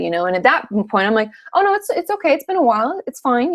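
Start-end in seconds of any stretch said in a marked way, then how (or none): 1.5-3.5 high, airy it's-fine voice; breezy, much higher reassurance; breezy brush-off. Retold or imitated. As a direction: wave it off lightly with a high lilt. Brushing off sympathy, quoted self.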